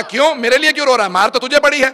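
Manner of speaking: high, loud, full-force questioning; the caliph demands an answer, voice carried up to a shout. Acted. Caliph asks Bahlul why he cries for him, in a loud preaching voice.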